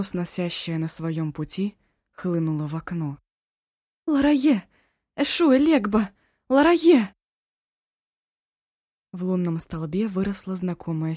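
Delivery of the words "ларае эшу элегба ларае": loud ringing summons; shouted invocation. Acted. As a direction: cry out the spirit's name. Eva calls the spirit.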